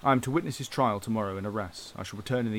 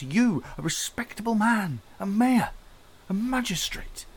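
anguished confession; 5 semitones higher, 4 dB louder than usual. Acted. Javert's anguished self-accusation.

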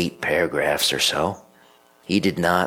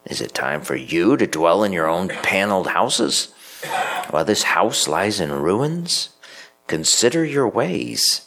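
raised, challenging prophet voice; prophet's challenge. Retold or imitated. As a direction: confront them as the prophet. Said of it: "asked a brilliant question".

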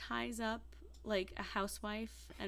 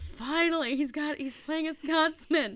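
excited; 7 semitones higher, 9 dB louder than usual. Retold or imitated. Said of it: "I'm like".

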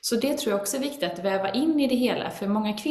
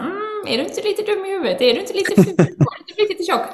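high, mocking, louder nagging voice; the PMS inner critic taunting her, mocking and high; 10 semitones higher, 6 dB louder than usual. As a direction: sneer like a mean little voice on her shoulder. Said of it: "inre kritiken på axeln ibland och bara så här".

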